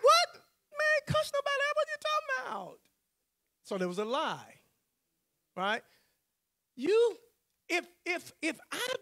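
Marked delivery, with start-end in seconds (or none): 0.0-2.8 much higher, loud and baffled; stunned disbelief. Retold or imitated. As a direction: act floored by the accusation. Stunned at being accused.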